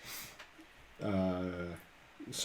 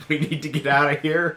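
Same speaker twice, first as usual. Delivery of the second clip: mild mock yell; 4 semitones higher, 7 dB louder than usual. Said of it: "somebody's more or less just yelling".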